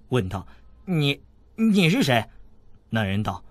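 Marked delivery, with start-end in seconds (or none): 0.9-2.2 startled. A narrator's reading. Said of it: "韦小宝一惊".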